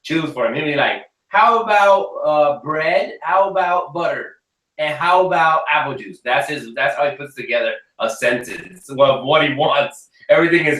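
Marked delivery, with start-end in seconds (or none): 1.3-6.2 put-on little kid voice. Little son imitated.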